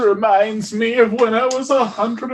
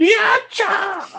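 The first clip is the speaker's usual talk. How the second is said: in-character yelling battle shout, higher; 10 semitones higher than usual. Voicing a character attacking with a critical hit: yelling in character. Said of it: "I just yell".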